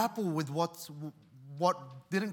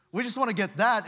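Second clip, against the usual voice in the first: emphatic climax; 4 semitones higher, 6 dB louder than usual. Acted. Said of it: "building repetition".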